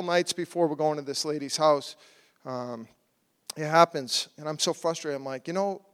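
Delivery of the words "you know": higher-pitched questioning, mildly exasperated; retold upset. Husband asking God why he is spared, upset. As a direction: protest to God, a touch of frustration. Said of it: "I was really upset".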